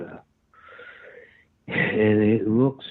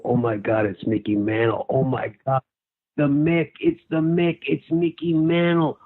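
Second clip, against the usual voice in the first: mock fan screaming; 6 semitones higher than usual. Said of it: "I'm doing it at the top of my lungs".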